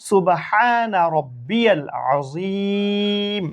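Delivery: slow, measured chant of the ruku praise; slow prayer recitation. Shown as a demonstration. Teacher recites the ruku tasbih for pupils, slow and chanted. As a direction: intone it evenly, stretching each word. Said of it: "teacher repeats the tasbih".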